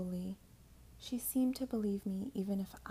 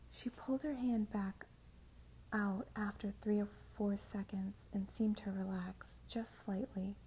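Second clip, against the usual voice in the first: whispered narration. A narrator's reading. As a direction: whisper the story close to the mic.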